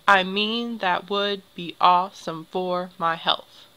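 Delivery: measured beat on "mean", "would", "awe", "for", "health"; emphasized iambic stresses. Shown as a demonstration. Teacher reading the next example line, stressing MEAN, WOULD, AWE, FOR, HEALTH. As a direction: stress every second syllable: i MEAN that WOULD be AWEsome FOR my HEALTH. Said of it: "Same with this next one".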